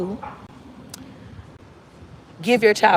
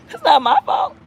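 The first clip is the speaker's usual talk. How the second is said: shouted denial; 8 semitones higher than usual. Real, not acted.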